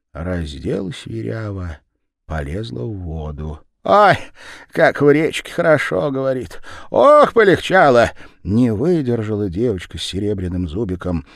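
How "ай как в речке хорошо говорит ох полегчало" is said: довольное восклицание. A narrator's reading.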